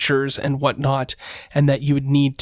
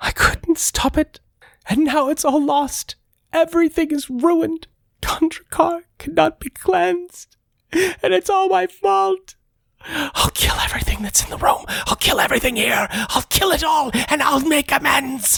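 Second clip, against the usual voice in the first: very high, tearful, sobbing, wailing ghost voice; 13 semitones higher than usual. Voicing a ghost answering the group in the room, crying ghost voice. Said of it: "who cries, um, the ghost says".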